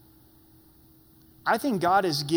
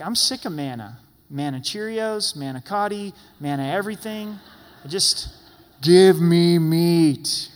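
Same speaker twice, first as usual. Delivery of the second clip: 1 mock whining; 7 dB louder than usual. Israelites whining for meat.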